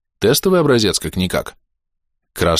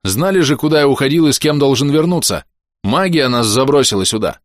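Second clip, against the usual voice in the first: irritated protest; 6 semitones higher than usual. A narrator's reading. Hero snaps at family.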